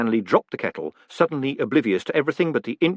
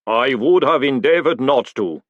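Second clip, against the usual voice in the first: slow, louder golem rumble; rumbled golem; 3 semitones higher, 5 dB louder than usual. Acted. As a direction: rumble the reply. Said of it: "the golem rumbled".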